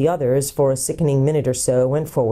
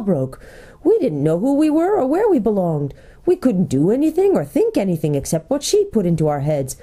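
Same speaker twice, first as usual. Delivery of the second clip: lively, swooping creature tale-teller; lightly voiced gnome storyteller; 5 semitones higher than usual. Golg tells the travelers what the gnomes did, as eager storyteller. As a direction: tell it with relish, in a light gnome character.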